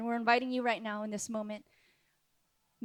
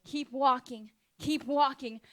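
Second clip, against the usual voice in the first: Jesus encouraging; 2 semitones higher, 4 dB quieter, slower than usual. Acted. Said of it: "he's saying right now".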